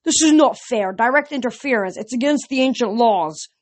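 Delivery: a monster complaining it's unfair; monster wailing. A narrator's reading. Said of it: "The monster wailed".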